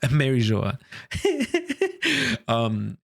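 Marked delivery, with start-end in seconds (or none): 0.0-0.8 "Merijoa" ending "jo-ah", after a laugh; alternative pronunciation. Real, not acted. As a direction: settle on "Merijoa" with an open final "ah". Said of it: "I don't know how to say that".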